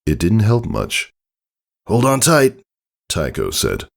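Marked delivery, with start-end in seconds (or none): 1.9-2.6 a lightly voiced father, a touch raised; brief, kindly warning before launching; father's warning. A narrator's reading. Father warning his daughter just before he takes off.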